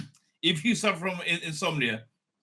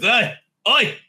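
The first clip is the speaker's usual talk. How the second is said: put-on loud, complaining Jewish deli customer accent; old Jewish man griping in a put-on accent; light Jewish accent; 4 dB louder, slower than usual. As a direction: kvetch about the deli in a mild Jewish accent. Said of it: "I'm putting a bit of an accent".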